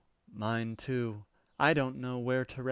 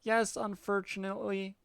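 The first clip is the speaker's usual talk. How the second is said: put-on much higher, childish defiant cat girl; 11 semitones higher, 5 dB louder than usual. Cat girl refusing the troll's order, high and childish. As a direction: squeak back like a defiant kitten.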